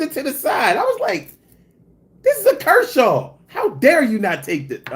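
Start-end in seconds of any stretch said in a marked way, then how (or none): 2.2-4.9 1 mock offended. Mock outrage at thieves.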